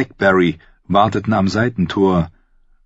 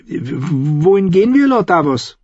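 put-on high, slow questioning child; high-pitched boy wanting to know; curious boy; 11 semitones higher, 4 dB louder than usual. A narrator's reading. Boy asking Davos on the stairs, curious. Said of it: "schaute ihn neugierig an".

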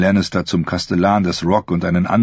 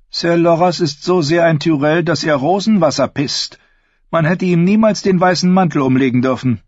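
high, sneering queen voice; mock Loras with contempt; evil queen; 10 semitones higher than usual. Cersei answers in queen voice.

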